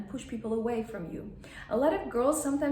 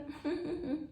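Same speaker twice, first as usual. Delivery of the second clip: soft closed little titter; tiny contained demo laugh; minimal laugh; 6 semitones higher, 5 dB quieter than usual. Shown as a demonstration. Feminine woman finding it enough, tiny laugh. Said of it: "is enough".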